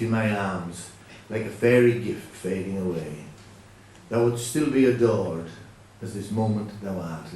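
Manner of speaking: measured reading of a love poem; poem recital. Shown as a demonstration. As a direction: recite it like a tender old verse. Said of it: "I'll recite the first verse".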